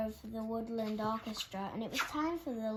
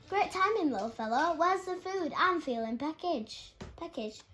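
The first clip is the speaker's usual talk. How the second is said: jolly bear; 6 semitones higher, 5 dB louder than usual. Acted. Hungry bear asks for food.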